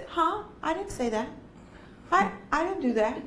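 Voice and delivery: high feigned innocence; innocent kid. Retold or imitated. Teacher imitating a defiant kid's fake innocence, high. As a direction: act the kid who plays dumb. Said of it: "And then they just".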